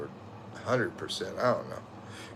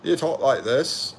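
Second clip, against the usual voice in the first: lightly put-on British accent; British accent impression; 2 semitones higher than usual. Streamer teasing a UK viewer, light British accent. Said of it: "bad for me to impersonate".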